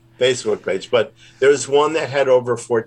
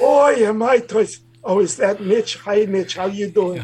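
high Bronx puppet greeting a friend; Toisty greets Mitch in Bronx accent; 7 semitones higher than usual. Acted. Puppet Toisty greets host Mitch, high and Bronx. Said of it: "He's from the Bronx".

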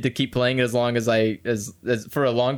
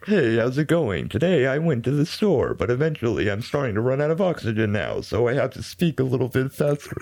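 dying computer voice. Shown as a demonstration. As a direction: talk like a failing text-to-speech machine. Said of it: "sounds like a computer dying".

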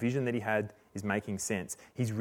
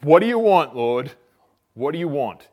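loud, high cry of alarm; acted startled terror, voice jumping up; terrified; 4 semitones higher, 11 dB louder than usual. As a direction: blurt it out wide-eyed with fear. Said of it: "wide-eyed in terror".

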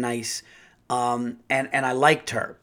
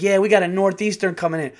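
imitating hygienist; 6 semitones higher, 4 dB louder, faster than usual. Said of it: "And she's like".

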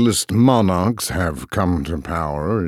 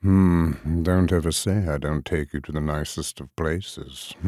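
soft amused murmur; murmured with a smile; 2 semitones lower, 4 dB quieter than usual. Acted. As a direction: murmur it, smiling. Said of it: "Hecarim murmured, a smile in his voice".

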